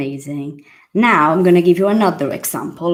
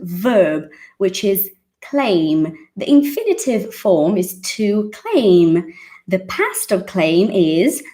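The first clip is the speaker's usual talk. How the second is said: mock grammar teacher; 2 semitones higher than usual. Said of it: "tried to teach him English and I said".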